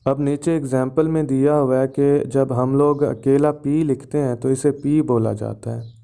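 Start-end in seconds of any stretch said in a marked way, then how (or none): 4.7-5.0 पी said as the letter name "pee". Shown as a demonstration. Teacher naming a lone alphabet letter to students, पी as letter name. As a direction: say पी with a long ee, as in the alphabet. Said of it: "alphabet के तौर पे बोला जाता".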